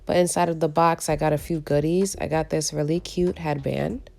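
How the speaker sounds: hoarse from a cold; raspy, cold-worn voice. Real, not acted. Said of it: "Excuse my raspy voice, I am recovering from a cold".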